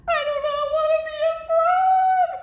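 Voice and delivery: very high, loud storybook scream; panicked wail. Acted. Gerald refusing to become a frog, panicked scream. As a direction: wail it out in full comic panic.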